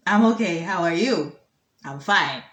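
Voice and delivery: lightly voiced old minister, sinking in pitch; a hint of a cracky elder on the phone; ancient phone voice. Minister answers the reporter, lightly voiced ancient woman. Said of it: "phone voice to sound very cracky and horsey and ancient".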